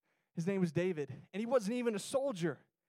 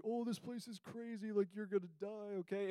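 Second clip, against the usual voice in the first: a much softer, hushed mock warning; spooky warning; 7 dB quieter than usual. Classmates warning about the haunted road, softer hushed mock warning. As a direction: lean in and spook them.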